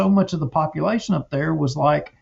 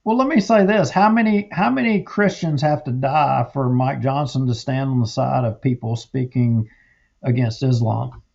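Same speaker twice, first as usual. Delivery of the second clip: heated; 2 semitones lower than usual. Real, not acted. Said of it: "I gotta get my temperature down".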